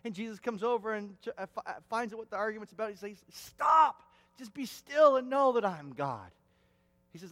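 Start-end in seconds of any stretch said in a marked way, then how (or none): 3.3-6.3 sudden loud shout of stop; shouted command. Acted. Jesus cuts into the disciples' argument with a loud shout. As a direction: bark the word to end the argument.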